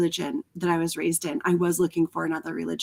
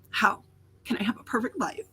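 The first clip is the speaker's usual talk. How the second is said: high, teary mock wail; mock crying; 9 semitones higher than usual. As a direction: ham up your old despair, half laughing. Mocking her past desperate self.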